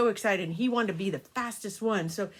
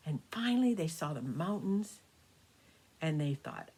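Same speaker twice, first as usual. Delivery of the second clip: put-on storytelling to children. A narrator's reading. Grandma telling the grandkids a birthday story, gentle storytelling. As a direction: spin a bedtime tale for the grandkids.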